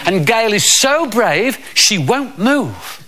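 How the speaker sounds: slow, drawn-out stage announcing; Uncle Marvo. Acted. Magician announcing knife throwing to children, slow showman patter. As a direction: build the trick up slowly for the children. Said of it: "He said".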